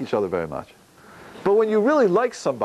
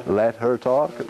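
slow plea; 5 semitones lower, much slower than usual. Retold or imitated. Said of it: "go over to them and say".

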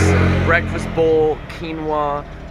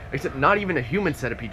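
ordinary delivery

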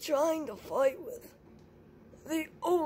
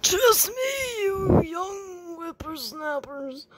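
put-on old prospector. Kid playing grumpy old veteran.

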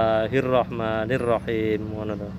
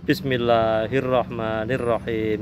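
slow prayer; slower than usual. Shown as a demonstration. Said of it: "ngono to".

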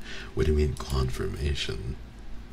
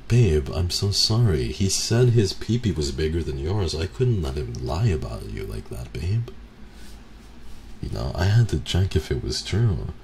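hammed-up sweet-talk to a partner; mock sappy boyfriend; 3 semitones higher, 4 dB louder than usual. Boyfriend sweet-talking his girlfriend, hammed-up and pleading.

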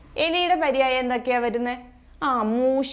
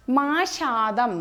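മാഷാദം drawn out syllable by syllable, very slow; slow dictation; much slower than usual. Shown as a demonstration. Teacher dictating a new word to students, very slow and syllabled. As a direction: spell out മാഷാദം slowly for the class. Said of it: "ആമയാണ്".

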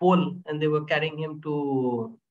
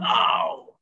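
pained yelp; 10 semitones lower, 3 dB louder than usual. Retold or imitated. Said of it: "he screamed".

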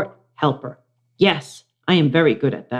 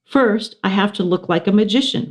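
put-on fast, higher girl voice; Miranda voice; 5 semitones higher than usual. Miranda planning her act, quick higher voice. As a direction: say it briskly. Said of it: "Miranda said".

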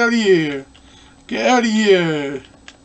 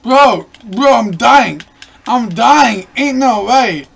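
panicking gamer; 5 dB louder, slower than usual. Real, not acted. Losing the fight, yelling.

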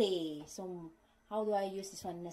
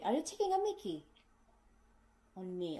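teasing colleague; faster than usual. Retold or imitated. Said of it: "they would say".

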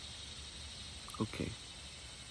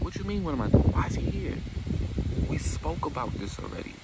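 much higher, louder woman's outburst; indignant high shout; 9 semitones higher, 4 dB louder than usual. Retold or imitated. Destiny snapping at Victoria in a high, louder voice.

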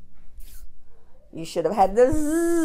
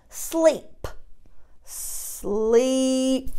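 soft stretched word; 8 dB quieter than usual. Shown as a demonstration. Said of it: "listen for what we get".

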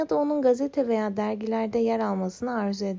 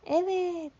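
high gleeful cry; thrilled yell; excited shout; 9 semitones higher than usual. Acted. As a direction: shout yes with joy. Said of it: "diye bağırır".

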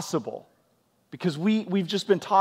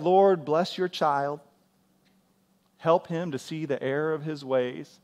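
pious polite prayer; 4 dB quieter than usual. Acted. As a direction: pray it sweetly, all cleaned up. Polite prayer contrasted with private name-calling.

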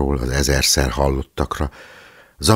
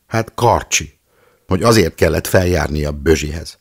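voice breaking; 4 semitones higher, 7 dB louder than usual. A narrator's reading. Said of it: "Éva néni hangja elcsuklott".

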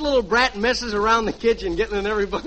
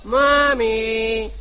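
put-on little boy. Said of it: "and I'll be the little boy".

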